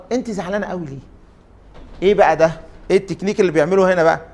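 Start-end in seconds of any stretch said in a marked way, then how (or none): 0.1-1.0 soft, kind question, much softer; smiling, no anger. Retold or imitated. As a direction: ask gently with a smile, not angry. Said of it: "قال مبتسما بلا غضب".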